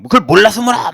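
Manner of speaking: loud, high mock yell; retold shout. Shaman shouting at a questioner, loud mock yell. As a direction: snap back like the scornful shaman. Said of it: "막 그러면서 막 소리 지르고요".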